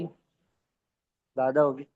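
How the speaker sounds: very slow ज़्यादा होगी, stretched; drawn-out prompt answer. Shown as a demonstration. Trainer to team, coaxing answer, drawn out slowly. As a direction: drag the answer out for them.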